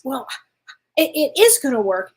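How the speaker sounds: retold upset, stress on "is"; upset insistence. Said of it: "she got really upset".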